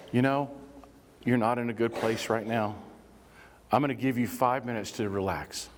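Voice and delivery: low, even, measured reassurance; calm de-escalation. Acted. Stepping back from someone yelling, calmly offering five minutes.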